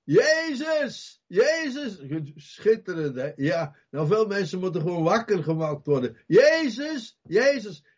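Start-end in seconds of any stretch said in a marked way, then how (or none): 0.0-2.0 high urgent cry of a blind beggar; desperate high calling. Retold or imitated. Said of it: "die begint te roepen". 6.3-7.8 urgent roadside calling. Retold or imitated. Blind man calling again.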